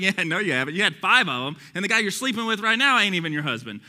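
blunt everyday paraphrase; casual, matter-of-fact correction; modern casual vernacular. Acted. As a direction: tell it straight, in street-casual talk. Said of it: "in our modern day vernacular".

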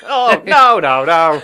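laughing. Real, not acted. Laughing reaction after the joke.

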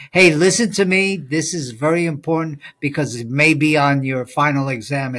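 imitating a professor warning the class; mock urgent professor. Teacher imitating a prof flagging exam material, mock urgent. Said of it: "a prof will say something".

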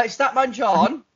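slowly drawn-out name; slow drawn-out call. Real, not acted. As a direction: stretch the name out.

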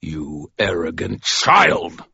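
slow, scornful growl; cold disdainful snarl; contemptuous snarl. Acted. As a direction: spit the insult slowly. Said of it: "Michael snarled".

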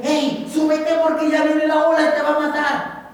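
put-on old man begging him into the little boat; urging old boatman. (viejito urgente, más agudo y fuerte)

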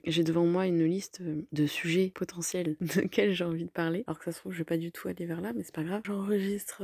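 groggy morning voice, fresh out of bed; just woke up. Real, not acted. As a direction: talk like you just got up. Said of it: "j'ai la voix du, du matin".

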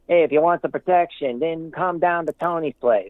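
put-on a weak, half-hearted Italian mobster accent that slips toward redneck; hammed-up Italian gangster accent, barely held; poor Italian accent. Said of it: "sorry for my poor attempt at an Italian accent".

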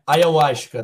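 "ayahuasca" slow and loud, every A sounded; correcting pronunciation. Shown as a demonstration. Guest correcting the host's missing A, careful pronunciation. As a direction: spell out "ayahuasca" by ear, A between Y and U. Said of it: "Tá faltando um A ali".

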